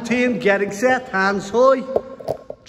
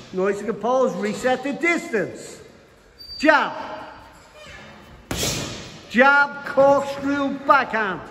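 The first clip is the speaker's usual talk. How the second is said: boxing coach calling combos. Acted. Calls combos throughout.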